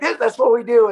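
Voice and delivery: quoted tough vet. Retold or imitated. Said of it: "he was like".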